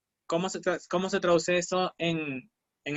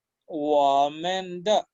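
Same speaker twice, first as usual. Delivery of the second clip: 我们的 stretched out more slowly; slower repeat; much slower than usual. Shown as a demonstration. Teacher repeating 我们的 more slowly for students. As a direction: draw out 我们的 so every syllable lands. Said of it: "Si digo".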